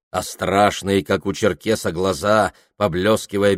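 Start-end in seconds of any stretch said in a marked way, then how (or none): none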